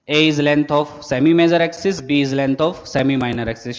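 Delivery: slow, deliberate classroom dictation; teacher reading notes aloud at writing pace. Shown as a demonstration. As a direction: spell it out word by word so students can write it down. Dictates definitions for note-taking.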